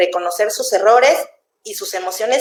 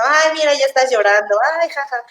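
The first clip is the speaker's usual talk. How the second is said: mocking parent; 3 semitones higher than usual. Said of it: "no burlarse de sus emociones".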